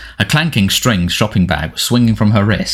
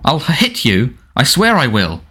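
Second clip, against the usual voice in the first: high, strained yelling threat; a scared bully lashing out; Dudley shouting at Harry, high and panicked; 5 semitones higher than usual. Acted.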